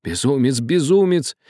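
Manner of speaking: high-pitched frantic reproach, building; agitated shouting. A narrator's reading. Old man rebukes Karlo for defying father, shouting. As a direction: cry out in horrified rebuke, pitch kept high. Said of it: "кричал весь, трясясь, старик".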